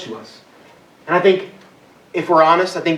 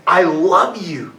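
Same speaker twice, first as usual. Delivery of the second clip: gentle, slowed-down declaration of love; tender I love you; much slower than usual. Acted. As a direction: linger on each word like a loving father. God's loving words.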